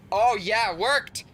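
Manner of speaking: high, loud burst of delight; excited triumph. Real, not acted. Celebrates the switch finally working.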